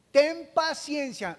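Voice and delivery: loud pleading. Acted. Preacher acting the servant begging the king, loud plea. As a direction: drag out the plea for patience.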